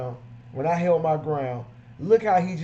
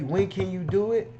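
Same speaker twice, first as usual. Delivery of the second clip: higher and louder, keen questions; eager customer; 5 semitones higher, 4 dB louder than usual. Retold or imitated. Keen customer pushing to book the detailer now. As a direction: press to book right away. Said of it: "if that person doesn't say".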